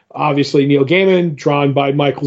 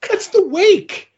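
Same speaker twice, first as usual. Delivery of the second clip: much higher, slow, dragging out the; slow goofy counting; slower than usual. Retold or imitated. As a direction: stretch "that's the wake" slowly in a high put-on voice.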